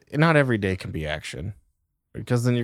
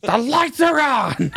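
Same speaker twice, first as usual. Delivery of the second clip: high, slow, drawn-out holler; calling kids home; 12 semitones higher, much slower than usual. Acted. Parent calling children in at dark, sing-out holler. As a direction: call it long across the neighbourhood.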